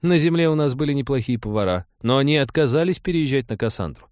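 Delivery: earnest, apologetic female character; earnest Trixie. Acted. Voices Trixie explaining.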